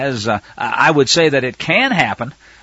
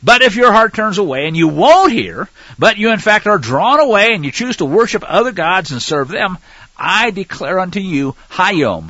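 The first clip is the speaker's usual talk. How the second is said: raised, emphatic reading voice; scripture reading; 4 dB louder than usual. Acted. Preacher reading Deuteronomy aloud, emphatic. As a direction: proclaim the verse to the flock.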